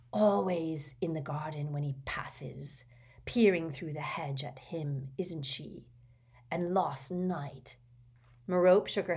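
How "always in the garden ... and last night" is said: half-whispered cruel taunt; ruthless taunting. Acted. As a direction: needle the sister without mercy. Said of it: "Morphin went on, ruthlessly".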